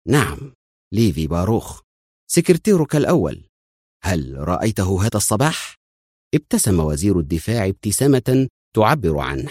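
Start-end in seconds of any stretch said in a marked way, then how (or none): none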